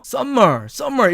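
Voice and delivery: "summer" as "썸머", with a doubled m; Korean-style "summer", both m's sounded; common mispronunciation. Shown as a demonstration. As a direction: hold the m in "summer": sum-mer. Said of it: "이렇게 알고 있습니다".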